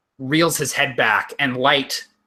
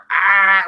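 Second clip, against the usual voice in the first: mock skull scream; 7 semitones higher, 6 dB louder than usual. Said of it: "he does the Skeletor".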